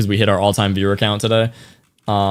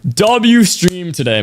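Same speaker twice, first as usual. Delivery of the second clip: slow, stretched, only a bit higher; held-back hype; 6 semitones higher, much slower than usual. Real, not acted. Streamer repeating the cheer to chat without yelling, slow and held back. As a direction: cheer it but keep the voice in check. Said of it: "I don't wanna yell any louder than that".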